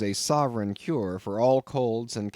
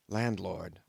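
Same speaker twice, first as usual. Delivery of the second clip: hushed, softer call; whispered; 4 semitones lower, 6 dB quieter than usual. A narrator's reading. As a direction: lean in and whisper it. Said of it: "I whispered".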